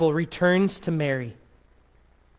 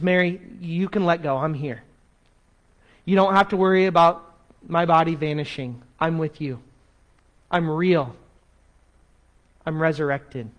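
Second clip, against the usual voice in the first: acted tender reassurance; gentle reassurance. Jesus reassures the clinging Mary.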